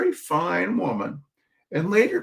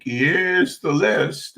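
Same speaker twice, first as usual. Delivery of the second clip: mock YouTuber; much slower than usual. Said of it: "like a YouTuber, I could go like".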